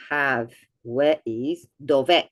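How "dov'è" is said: dov'è with the tune going up at the end; rising dov'è. Shown as a demonstration. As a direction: push dov'è upward on the last sound. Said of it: "which goes down in intonation".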